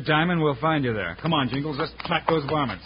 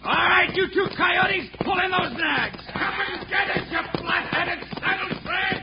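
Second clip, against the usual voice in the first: shouting at outlaws; 11 semitones higher than usual. Acted. Marshal shouts down cornered outlaws, high commanding yell. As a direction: bark them off their horses.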